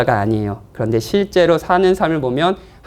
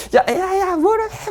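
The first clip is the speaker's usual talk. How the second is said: high-pitched pretend scolding; mock angry shouting; 13 semitones higher, much slower than usual. Preacher shows churchgoers yelling at someone, mock angry shouting. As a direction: play at yelling in anger, pitched way up. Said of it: "이런 소리를 지르고 있어요".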